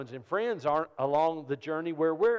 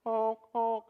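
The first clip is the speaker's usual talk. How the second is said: mock honk; 9 semitones higher than usual. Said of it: "Honk, if you can hear me".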